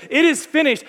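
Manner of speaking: triumphant proclamation. Retold or imitated. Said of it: "as Jesus said".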